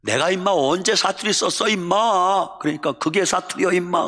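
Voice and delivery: indignant retort in Chungcheong dialect. Retold or imitated. Teased country boy denies having an accent, in Chungcheong dialect. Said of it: "저놈 사투리 쓴다고".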